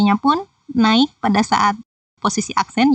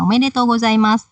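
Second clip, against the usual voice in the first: "Omedetou gozaimasu" kept evenly raised throughout; high even intonation. Shown as a demonstration. Teacher demonstrating a happy congratulation, "Omedetou gozaimasu" evenly pitched throughout. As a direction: hold all of "Omedetou gozaimasu" on one happy tone. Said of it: "nada yang tinggi semua".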